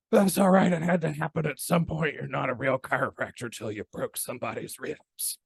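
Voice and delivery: hammed-up winded South Carolina mentor reassuring his student; South Carolina accent. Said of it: "He was from South Carolina".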